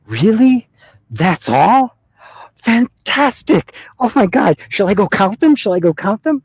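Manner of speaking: very high, loud, overjoyed squeal; hammed-up thrill at wonderful news; ecstatic excitement. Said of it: "he was so excited".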